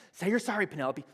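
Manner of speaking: high, loud furious demand; angry yell. Retold or imitated. Mother yelling at daughter to apologize, furious. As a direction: shout it, patience gone. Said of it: "I start to get upset".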